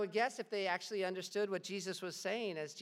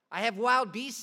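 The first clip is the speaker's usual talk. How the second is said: loud, higher menacing boast; loud threat; 6 semitones higher, 10 dB louder than usual. Acted. Governor threatening Polycarp with beasts, loud. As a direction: bark the threat out.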